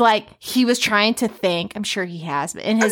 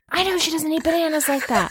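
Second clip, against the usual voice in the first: smug boyfriend impression; 8 semitones higher than usual. Mimics boyfriend's future reaction.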